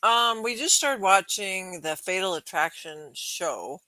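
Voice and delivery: talking around ice in the mouth; words slurred around a mouthful of ice. Real, not acted. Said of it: "I have ice in my mouth".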